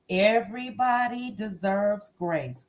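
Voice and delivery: slow, gentle Sunday school teacher voice; sweet patient sunday school. Shown as a demonstration. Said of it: "in my Sunday school teacher voice".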